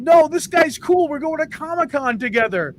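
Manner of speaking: breezy, hammed-up reassurance; cartoon character voice. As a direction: Dean brushing off the warning, lightly voiced. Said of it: "He's like".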